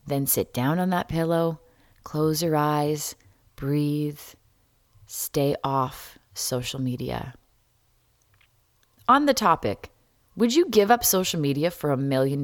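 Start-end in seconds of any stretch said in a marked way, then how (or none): 0.1-7.3 calm. Shown as a demonstration. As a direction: guide gently, slowing down. Guiding calming self-care steps.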